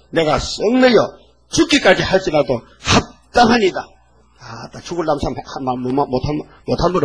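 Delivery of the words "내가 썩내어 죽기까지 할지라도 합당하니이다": defiant Jonah. Acted. Jonah's defiant answer read.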